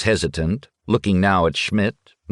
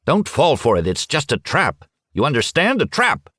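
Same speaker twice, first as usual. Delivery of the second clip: rising higher and higher, urgent; pushing harder with each line; insistent warning; 9 semitones higher than usual. Acted. Schmidt urges Futaki not to fall for the trap, insistent.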